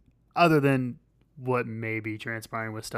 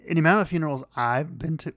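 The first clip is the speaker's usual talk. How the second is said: scratchy voice, losing it mid-sentence; hoarse voice; 5 semitones higher, 3 dB louder, faster than usual. Real, not acted. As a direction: voice going hoarse. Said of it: "I was losing my voice".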